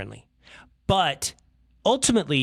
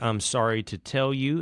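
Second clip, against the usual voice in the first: slow, measured apology; mock-solemn friendly official. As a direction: deliver bad news in a friendly, drawn-out way. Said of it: "maintains the same friendly tone of voice".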